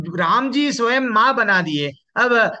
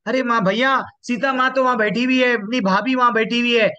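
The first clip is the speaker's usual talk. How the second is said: higher-pitched, mildly astonished quote; surprised report; 6 semitones higher than usual. Acted. Lakshman telling Ram that mother Sita sits there, surprised. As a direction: act out breaking surprising news to a brother.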